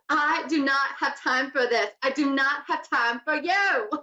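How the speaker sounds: hammed-up imitation of Anna Delvey's accent. Host quoting a TV show while amused, mock Anna Delvey accent. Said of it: "I'm terrible at accents".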